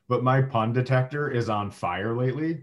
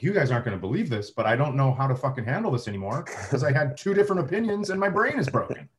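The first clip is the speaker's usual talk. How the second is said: fast, rising, flustered rant; overwhelmed rant; 2 semitones higher, faster than usual. Retold or imitated. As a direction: spill it out, exasperated. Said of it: "And I was like".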